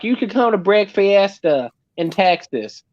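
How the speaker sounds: slow, badly faked Texas accent; hammed-up, shoddy Texas accent; awful Texas accent. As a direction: put on a deliberately bad Texas drawl, slowly. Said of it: "that was an awful Texas accent".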